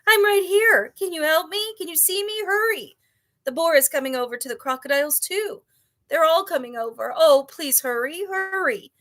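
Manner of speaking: high, loud panicked pleading; frantic yelling. A narrator's reading. Captive dragon yelling to the father for help, high frantic plea. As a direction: beg for rescue in a rush.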